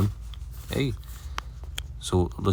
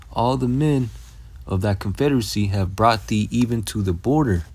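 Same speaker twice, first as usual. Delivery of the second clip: raised, measured verse reading; scripture reading; 3 semitones higher than usual. Acted. Preacher reading Obadiah to his listeners, raised and measured. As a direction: read it out like the Bible is speaking.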